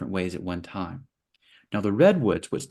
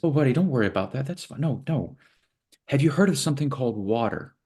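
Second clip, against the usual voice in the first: reassuring wise wave; 5 semitones higher, faster than usual. Acted.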